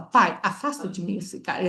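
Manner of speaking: "pai, afasta de mim esse cálice" said flatly as a direct order; plain command. Shown as a demonstration. Teacher shows the wrong version, a flat command. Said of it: "Ele não fala isso".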